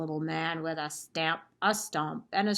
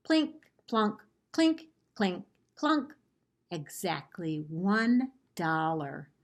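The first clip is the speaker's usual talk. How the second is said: story narration. A narrator's reading. Librarian reading a picture book to children, lively storytelling. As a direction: tell the story to the class with gusto.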